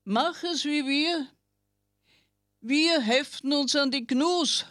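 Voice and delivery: high, lightly voiced tiny ticks; calm the sloth in a high little voice; reassuring ticks. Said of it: "die Zecken beruhigten es".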